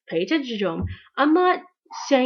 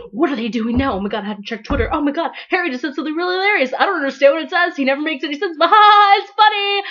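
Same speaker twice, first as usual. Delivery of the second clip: giddy fangirl; 4 semitones higher, 5 dB louder, faster than usual. Retold or imitated.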